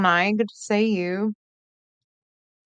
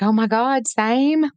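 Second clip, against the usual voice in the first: higher and louder, fangirl squeal on "same"; excited gush; 5 semitones higher, 4 dB louder, slower than usual. Retold or imitated. Retelling her reply to Brandy Neal, excited squeal. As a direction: gush like a starstruck fan. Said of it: "and I was like".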